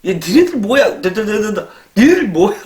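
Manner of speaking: teacher losing patience with a rowdy class, mock angry scold. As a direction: snap at the noisy kids, building up. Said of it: "막 이렇게 설명하다가".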